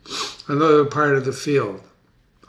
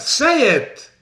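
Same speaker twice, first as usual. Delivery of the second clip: Macbeth; 11 semitones higher, 6 dB louder than usual. Acted. Macbeth commanding the messenger.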